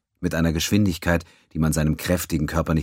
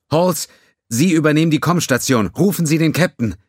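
higher, louder, firm command; loud order; 12 semitones higher, 7 dB louder than usual. Acted. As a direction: relay the order across the bridge. Ensign loudly relays order.

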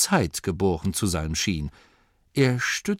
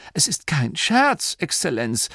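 Dorcas voice; 7 semitones higher, 3 dB louder than usual. Acted. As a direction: answer respectfully in a raised voice. Dorcas insists.

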